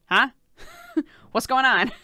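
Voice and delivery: put-on baby's confused huh, laughing; puzzled baby voice with a laugh; surprised. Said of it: "that's when they're like".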